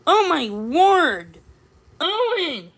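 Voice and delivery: high, loud, drawn-out gasp of alarm; shocked exclamation. A narrator's reading. Shopkeeper seeing Owen slip, crying out in alarm. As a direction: cry out seeing a friend fall. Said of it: "he exclaimed".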